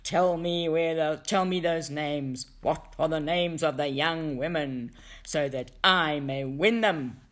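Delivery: loud, menacing demand for the names; stranger's shout. Acted. Black stranger shaking the dog for the names, loud menacing shout. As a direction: bark it out like a dark stranger shaking his prey. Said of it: "The black stranger shakes the dog and shouts".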